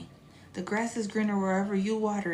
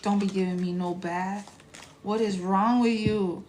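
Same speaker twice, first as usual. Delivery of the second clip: voicing her cat as a huffy diva; cat's indignant voice; 3 dB louder, slower than usual. Owner voicing her pissed-off cat, mock outrage. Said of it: "She said".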